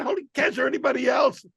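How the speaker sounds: high, incredulous complaint; exasperated disbelief. Retold or imitated. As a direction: push it up in mock exasperation. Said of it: "I said".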